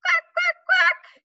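high, loud duck quacking; squeaky quacking for kids; duck quacks. Shown as a demonstration. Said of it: "walk around like a duck".

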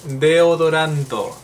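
slow, drawn-out deodoranto. Shown as a demonstration. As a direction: deodoranto said slowly, each syllable clear. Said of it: "Vamos ahora con".

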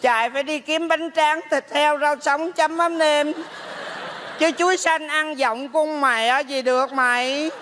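drawn-out mock-ghostly grumbling; put-on spirit mother, scolding. Plays the mother's spirit complaining. (giả hồn mẹ trách con)

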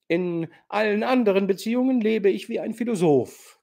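prahlerisch, lauter und höher erzählt; großspurig vor der Gesellschaft renommieren; redseliger alter General. Acted. (der General prahlt redselig vor Nastassja)

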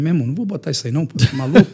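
fast, laughing protest; laughing refusal. Retold or imitated. Refusing borrowed mouthguard, laughing. (recusando o protetor rindo)

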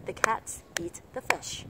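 "the" barely there, CATS, EAT, FISH carrying the beat; three strong beats with each "the" swallowed; sunken "the". Shown as a demonstration. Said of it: "cái từ the rất là chìm".

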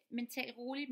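slowing down on tal roligt; calm, slow speech. Shown as a demonstration. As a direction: say it calmly and unhurried. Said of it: "mener jeg".

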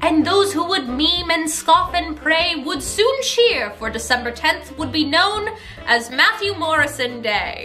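slow, measured storybook verse; rhyming story narration. Acted. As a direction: close the tale like a children's rhyme.

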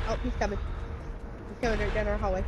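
being chased. Real, not acted. Chaser approaching hallway.

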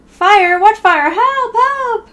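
mock panic, shrieking for help; panicked cries. Character hearing about a fire, hammed-up panic.

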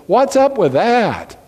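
slow, drawn out "What's up with that?" with the stress on "up", lightly voiced; a light imitation of the missionary's catchphrase; missionary Dan Weaver's catchphrase, lightly imitated; flamboyant missionary. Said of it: "say it in such a flamboyant way".

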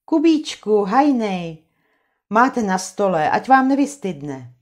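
sweet housewife call to the men; Anče calling out. Acted. Anče calls the men to eat.

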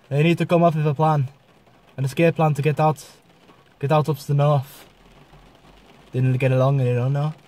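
lightly put-on Norwegian accent. Shown as a demonstration. Vlogger plotting an escape north, Norwegian accent. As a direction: speak with a hint of Norwegian. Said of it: "Norwegian, which sounds a bit similar".

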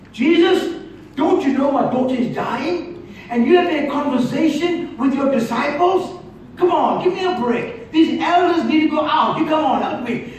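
urgent plea, starting high, with laughs; hammed-up father begging Jesus; mock desperate father. Jairus pressing Jesus to hurry, mock frantic.

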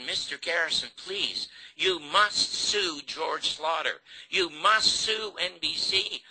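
high, slow, emphatic appeal; urgent pleading. Retold or imitated. Producer begging Garrison to sue the network, urgent retold plea. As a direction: implore him, drawing out the key words.

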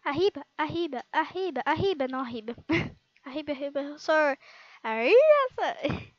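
playful mock Spanish chant, ending loud. Girl joking to viewers that she speaks Spanish, in playful mock Spanish. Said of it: "Eu sei falar essas, esses tipos de língua".

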